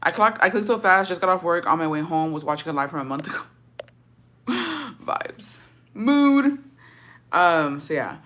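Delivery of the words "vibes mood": amused and agreeing; laughing. Real, not acted. Laughing at old live.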